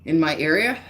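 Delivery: winded, catching breath; short of breath while talking. Real, not acted. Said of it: "Sorry, I'm out of breath".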